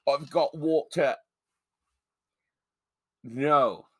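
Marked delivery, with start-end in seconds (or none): 0.1-1.1 British "waw-tuh" on "water"; mock British accent. Co-host mocking the supposed San Diegan, mock British accent. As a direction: put on the actor's British slip. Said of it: "He says water".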